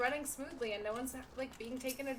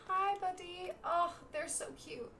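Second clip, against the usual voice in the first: cooing; 8 semitones higher than usual. Real, not acted. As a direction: coo at a cute little pet. Cooing at cute creature.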